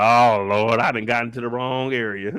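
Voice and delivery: mock-pray like she picked the wrong car; lightly voiced scared Ellie, Lord help me; Ellie panicking. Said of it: "Ellie like".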